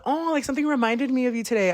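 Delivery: high, gushy imitation of an acquaintance; chatty acquaintance. Voices acquaintance's cheery opener.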